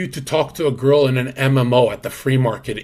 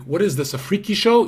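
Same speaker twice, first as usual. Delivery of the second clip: light imitation of a Russian accent, rising on freaky show; a mock Russian accent, half-hearted; 6 semitones higher than usual. Retelling a Russian YouTuber's freak-show line, mild Russian accent. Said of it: "in his Russian accent".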